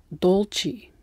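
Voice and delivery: dolci said slowly with a dark L; American accent. Shown as a demonstration. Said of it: "use the dark L when they shouldn't".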